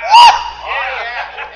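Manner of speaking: joyful preacher's holler; exultant whoop. Real, not acted. Preacher whoops amid the excitement.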